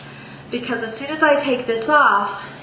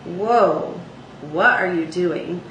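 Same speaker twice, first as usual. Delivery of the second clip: talking-range example; 3 semitones lower, slower than usual. Shown as a demonstration. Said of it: "all of the pitches that you use when you talk".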